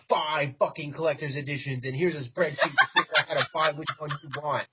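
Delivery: lightly voiced corporate suit bragging; playful mock of a greedy exec; Ubisoft exec impression. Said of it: "That was a really good Ubisoft impression".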